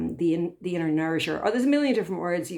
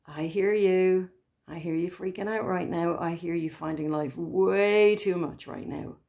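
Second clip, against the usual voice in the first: kind soothing voice. Retold or imitated. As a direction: soothe a frightened part of yourself. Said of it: "then you can say".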